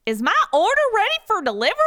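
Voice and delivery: the cowboy founder asking briskly. Acted. Founder asking Ed for his order, cowboy accent. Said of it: "asks plainly".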